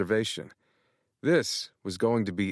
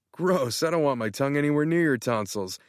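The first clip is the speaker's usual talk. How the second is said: much higher, gushing excited friend; excited Tanner; 5 semitones higher than usual. Acted. Tanner thrilled, congratulating Matt on being in love. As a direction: gush as if he just found out.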